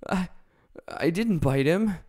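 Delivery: a big beast stammering its defence; the lion denying it to Dorothy; lion's voice. Acted.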